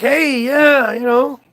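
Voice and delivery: hammed-up music-industry hype man voice; slick exec pitch. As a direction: oversell the party like a smooth-talking label boss. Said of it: "they're like".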